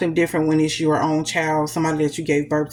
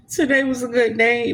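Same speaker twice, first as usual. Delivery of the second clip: teary laugh; 4 semitones higher than usual. Real, not acted. Laughing after crying.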